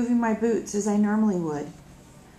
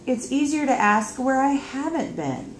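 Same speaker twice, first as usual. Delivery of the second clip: exasperated; 5 semitones higher, 3 dB louder than usual. Acted. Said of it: "in a sound of exasperation".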